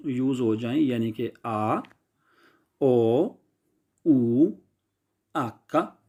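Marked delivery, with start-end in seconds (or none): 2.8-6.0 ओ, ऊ, आका spoken as Italian letter names; teacher reciting Italian letters. Shown as a demonstration. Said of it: "ये मैं Italian में बोल रहा हूँ".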